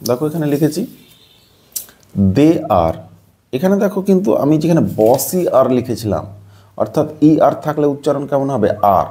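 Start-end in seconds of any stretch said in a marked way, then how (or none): 2.4-2.9 দে আর in two separate parts, দে then আর; split pronunciation. Shown as a demonstration. Teacher showing how the word is pronounced, দে আর split in two. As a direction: break দেয়ার into দে and আর, each clear. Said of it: "এটার ই এর উচ্চারণটা কেমন হবে".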